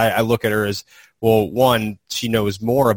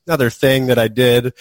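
breezy imitation, higher and a bit louder; Shelley glossing over it; 4 semitones higher, 5 dB louder than usual. Colleague imitating her reply to praise, breezily dismissive. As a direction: shrug it off as just routine. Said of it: "Shelley just kinda gleans over".

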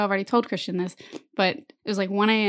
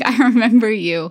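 fond recognition; 7 dB louder than usual. Retold or imitated. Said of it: "one of those reactions where".

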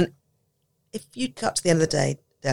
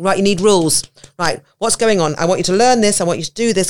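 louder, commanding teacher laying down rules; bossy teacher; 3 semitones higher, 5 dB louder than usual. Retold or imitated. Teacher to autistic child, a louder bossy lecture. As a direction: bark orders like a strict teacher.

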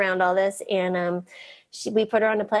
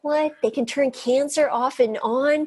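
higher-pitched, drawn-out disbelief; incredulous retold question; retold astonishment; 4 semitones higher, slower than usual. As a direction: react as if just reading it, amazed. Retells astonishment at the book.

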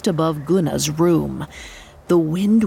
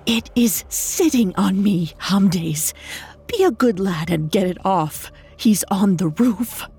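hushed, frightened whisper. Acted. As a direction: whisper the warning in fear. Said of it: "Guna whispered".

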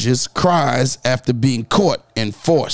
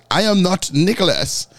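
mock English accent, mild; a lightly put-on bad English accent; terrible English accent. Host mocking the fugitive's interview, in a mild bad English accent. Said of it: "With a terrible English accent".

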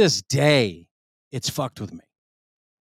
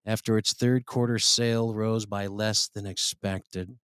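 mock grave news read. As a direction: read it like dire breaking news. Reads news story gravely.

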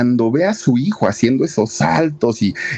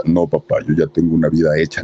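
macho character voice; 5 semitones lower than usual. Retold or imitated. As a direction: lower put-on tough-guy voice. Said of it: "en su personaje de muy machote". (voz de machote, más grave)

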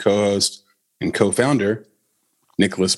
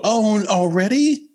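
faux disappointment; 11 semitones higher, slower than usual. Party host mocking a guest leaving early, faux dismay. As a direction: fake sad, high and drawn-out. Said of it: "They give you the faux".

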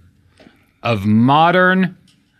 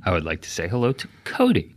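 deadpan mock-formal shout-outs, lower and softer; mock solemn announcer; 7 semitones lower, 8 dB quieter, faster than usual. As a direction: greet everyone like a grave dignitary. Formal mock greetings continue.

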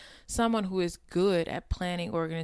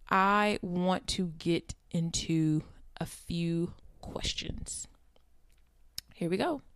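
slow, breathy whisper; slower than usual. Real, not acted. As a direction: hush it out slowly. Hushed lead-in to questions.

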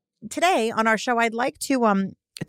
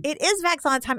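show intro call; 9 semitones higher than usual. Acted. Co-host echoing the host's catchphrase like an announcer. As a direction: sing it out like a show opener. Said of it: "echoing the catchphrase".

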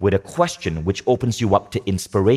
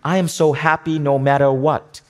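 higher, chirpy fake affirmation; hollow forced cheer; 6 semitones higher than usual. People forcing an affirmation they don't believe, mock cheerful. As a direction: recite it like you don't believe it. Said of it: "Too many people might say".

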